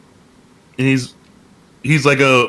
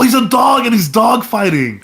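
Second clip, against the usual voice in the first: excited explaining; 5 semitones higher than usual. Real, not acted. Explaining to bandmates why dogfighting is cool, excited. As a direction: sell the pun with gusto.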